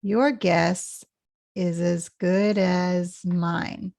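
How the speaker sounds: slow, YOUR GUESS then linked IS AS; linked words. Shown as a demonstration. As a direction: take it slowly, joining IS AS. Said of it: "This is linked".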